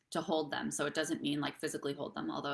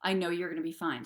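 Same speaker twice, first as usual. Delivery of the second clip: reassuring. Retold or imitated.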